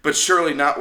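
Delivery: laughing while arguing a point. Real, not acted. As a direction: let a laugh through the words. Laughs at friend's joke.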